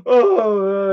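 retold tearful "oh" moans, drawn out; imitated crying. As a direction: imitate a dad starting to cry. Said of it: "And Dad starts crying".

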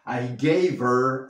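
"her" with the h dropped, run into "gave". Shown as a demonstration. Teacher shows students the linked "gave her". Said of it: "nos podemos comer la H".

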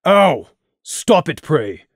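loud, pained yelp; sharp yelp. Acted. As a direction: yelp after being punched in the cheek. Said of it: "Crimson yelped".

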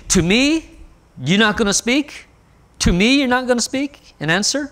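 rising outrage at being ignored; indignant Pilate. Retold or imitated. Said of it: "So it's like Pilate is saying".

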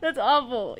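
high voice breaking into laughter; helpless laughter. Real, not acted. Streamer appalled by the game's ending, helpless laughing. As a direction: laugh helplessly through the words.

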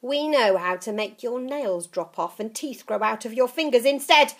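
put-on menacing old witch. Grandma menacing.

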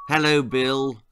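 smiling doctor. Acted. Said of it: "he smiled".

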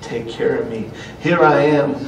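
soft, slow, humble prayer. Pretend. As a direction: pray quietly, surrendering. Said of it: "and say".

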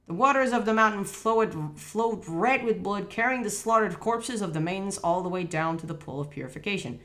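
legend read out as narration; reading aloud. Real, not acted.

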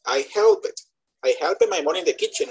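help it with an extra syllable for helped; mimicking mispronounced -ed. Teacher imitating a student's audio, helped mispronounced in two syllables. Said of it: "no envíen un audio diciendo".

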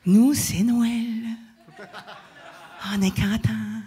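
chuckling through the words with delight; happy laughing words to a full hall; laughing with joy. Real, not acted. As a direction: let a real laugh carry the words. Joyful Christmas-like crowd moment.

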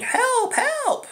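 put-on high, thin child's voice calling help; little boy's cry. Boy in the grass calls to passersby, high child's plea. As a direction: plead like a small lost boy. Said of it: "a little boy's voice saying".

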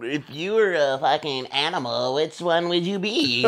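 drawn-out mock question, rising at the end; mocking small talk. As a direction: slowly parody an inane icebreaker.

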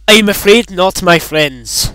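lightly put-on, unconvincing Scottish accent; badly faked Scottish lilt; failed Scottish accent. Replying in character as the game figure, failed Scottish accent. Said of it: "like a really failed Scottish accent".

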